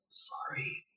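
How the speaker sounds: silent, unvoiced sorry; just mouth the word. Mort silently mouths sorry to Leland. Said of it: "Mort mouths".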